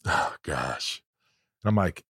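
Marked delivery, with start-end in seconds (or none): 0.1-1.0 lightly imitated fake sob, low; mock-weepy and low, after a sniff; half-hearted imitation of crying; pretend crying. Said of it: "pretends he's crying".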